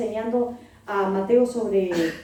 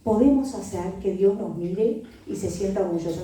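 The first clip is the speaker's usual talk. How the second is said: consoling mother; 4 semitones lower than usual. Retold or imitated. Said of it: "entonces digo".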